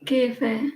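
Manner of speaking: "Cafe" said as KEH-feh; regional coffee pronunciation. Retold or imitated. Streamer trying a viewer's way of saying coffee, regional pronunciation. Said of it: "How do you say coffee?".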